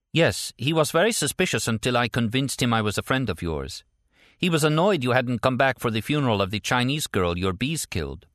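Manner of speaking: matter-of-fact report in a lifted voice; Stella, businesslike. Acted.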